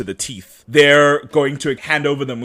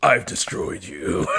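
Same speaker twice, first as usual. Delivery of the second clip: drawn-out, laughing villain voice; Zoom villain impression; much slower than usual. Host mimicking Zoom taunting the Flash, slow villain voice. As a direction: intone it very slowly like a supervillain. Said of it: "It's Zoom going like".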